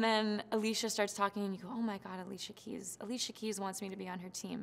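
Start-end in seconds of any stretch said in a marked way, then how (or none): 1.7-4.6 much softer, breathless disbelief; hushed awe. Retold or imitated. Contestant recalling awe at a star coach, hushed. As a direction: say it like you can barely believe it. Awed that the star wants her.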